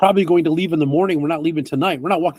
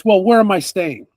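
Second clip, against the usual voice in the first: lightly snotty city priest asking; a touch of snooty entitlement; 2 semitones higher, 4 dB louder than usual. Acted. Priest to merchant, mildly snotty. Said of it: "kind of snotty".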